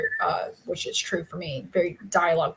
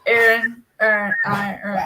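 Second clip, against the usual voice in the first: put-on Boston accent; 6 dB louder than usual. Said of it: "he goes".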